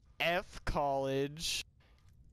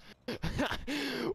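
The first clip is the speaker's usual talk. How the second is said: high-pitched burst of laughter; 9 semitones higher than usual. Real, not acted. Reader amused before redoing the line, high laugh.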